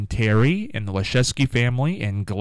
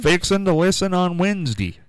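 higher-pitched mock Southern twang; playful Southern accent; 5 semitones higher than usual. Teasing her about Southern colloquialisms.

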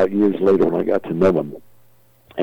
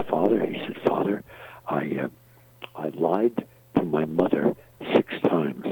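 nervous stammer; 7 dB quieter than usual. Retold or imitated. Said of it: "Johnny is stuttering and nervous".

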